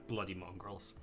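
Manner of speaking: a soft grumble under her breath; muttered under breath. Acted. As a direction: mutter it to herself in disgust. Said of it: "she whispers under her breath".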